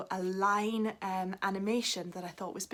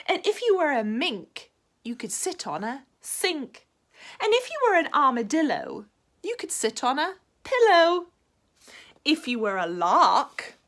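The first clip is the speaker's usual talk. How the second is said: excited dog; 7 semitones higher, 8 dB louder than usual. Acted. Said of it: "said the dog".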